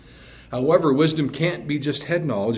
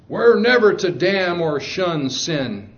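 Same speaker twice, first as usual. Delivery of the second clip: mild mock scream, slow and raised; higher, slowed-down retelling of a scream; retold scream; 4 semitones higher, 3 dB louder, slower than usual. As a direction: imitate her outburst, drawn out and higher. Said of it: "and she screamed".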